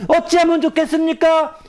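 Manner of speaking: high, desperate mourner's cry; wailing plea. Acted. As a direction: beg for help through sobs. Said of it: "통곡하면서".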